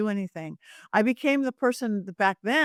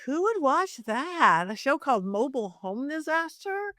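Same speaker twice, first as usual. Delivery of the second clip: incredulous; 4 semitones higher than usual. Retold or imitated. Incredulous at show name.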